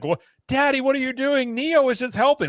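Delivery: put-on high, pleading little kid asking Daddy; child's voice. Kid pleads with Daddy wrestling the robot, high child voice. Kids voiced in imagined scene.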